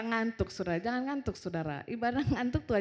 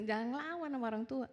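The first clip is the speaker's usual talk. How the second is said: santai; 2 semitones higher than usual. Retold or imitated. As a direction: tell the child off without any heat. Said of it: "Santai aja". (menegur anak dengan santai)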